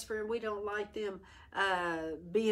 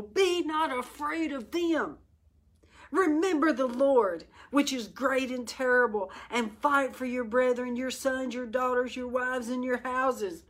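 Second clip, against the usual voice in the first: higher, stirring reading of the verse; raised rallying read; 4 semitones higher than usual. Shown as a demonstration. Preacher reading Nehemiah's words higher and stirring. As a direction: lift it into a rallying cry. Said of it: "Let me read that again".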